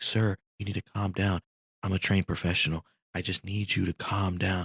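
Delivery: lightly voiced would-be professional; acted calming passenger. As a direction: plead with an unruly man to settle. Passenger trying to calm the man.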